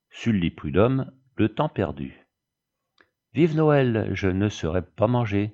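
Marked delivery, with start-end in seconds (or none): 3.3-5.5 a touch of a triumphant cry, easing off; lightly cried out; exclaiming. Acted. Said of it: "s'écria le petit raisin de Corinthe".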